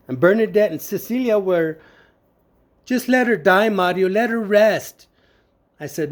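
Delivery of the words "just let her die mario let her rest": higher, imitated urging; insistent retold plea. Sisters urging him to let mom go, imitated insistent plea. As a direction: press the point in a mildly raised voice.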